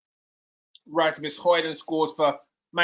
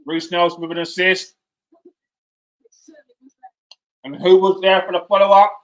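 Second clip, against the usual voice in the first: excited goal call; 8 dB louder than usual. Real, not acted. Celebrating goal.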